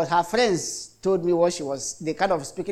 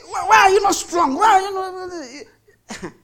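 very high put-on shrill taunt, shouted; mock nurse taunt; 13 semitones higher, 6 dB louder, slower than usual. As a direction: squeal the taunt like a mocking nurse, much higher. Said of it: "he said".

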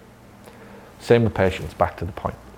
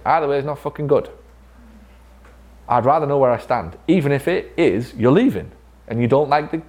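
blunt retold challenge; 5 semitones higher than usual. Retold blunt talk to employee.

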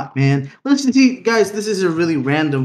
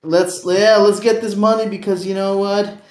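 hustle bro voice; 5 semitones higher than usual. Retold or imitated. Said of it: "they're always like".

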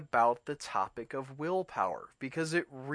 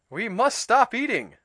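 loud, high frantic cry; cried out; 9 semitones higher, 9 dB louder than usual. A narrator's reading. Toad cries out to Frog while still eating. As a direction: Toad blurting it out in alarm. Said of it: "cried Toad as he ate another".

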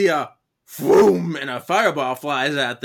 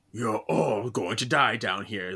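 tags=1; 5 semitones lower, 4 dB quieter than usual. Retold or imitated. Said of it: "like the Red Queen from Resident Evil".

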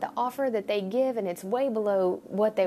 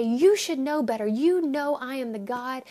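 stern God; 2 semitones higher, 3 dB louder than usual. Retold or imitated. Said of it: "he doesn't look at us and say".

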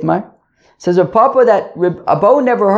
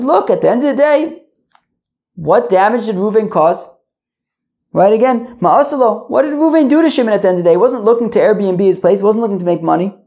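lightly acted sage answering, higher pitch; a hint of a rabbi explaining, higher; Reb Ami's answer, higher voice; 4 semitones higher than usual.

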